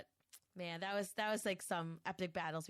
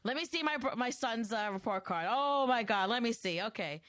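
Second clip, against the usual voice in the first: teasing dad; 3 semitones higher, 5 dB louder than usual. Retold or imitated. Dad loudly mocking report card.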